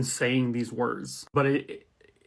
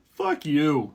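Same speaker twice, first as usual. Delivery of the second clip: not friendly. Pretend. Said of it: "Nope, this wasn't friendly".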